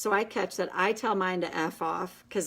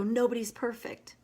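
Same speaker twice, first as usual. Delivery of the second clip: higher, simple and earnest; sister's voice; 4 semitones higher than usual. Retold or imitated. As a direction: say it like a kind sister. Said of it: "she'd go".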